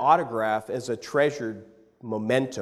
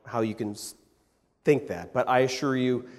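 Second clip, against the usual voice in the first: sweet pleading; 5 semitones lower than usual. Retold or imitated. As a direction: coax him kindly, a mother asking a favor. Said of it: "my mom was just so sweet".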